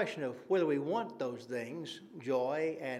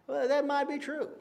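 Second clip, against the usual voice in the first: pitched well up, pointed and knowing; emphatic concession; 10 semitones higher than usual. Shown as a demonstration. Preacher to congregation, a higher ironic concession. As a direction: concede it with a raised, ironic lift.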